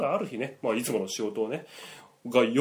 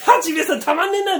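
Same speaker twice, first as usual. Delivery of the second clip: high, loud laughing praise; laughing quote; 4 dB louder, slower than usual. Retold or imitated. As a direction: cackle through the line, very high. 笑いながら八兵衛を真似る. (高く笑いながら「たまんねえな」)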